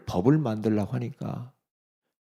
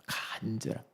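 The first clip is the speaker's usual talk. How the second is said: breathy whisper, barely voiced; whispered echo; 11 dB quieter than usual. Preacher whispering the word back to the congregation. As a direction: let the word fall to a whisper.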